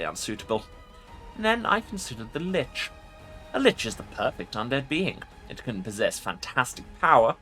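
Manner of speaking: commanding undead lich voice; ancient rasping undead king. Acted. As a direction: speak as a proud ancient lich. Lich voice in a game playthrough.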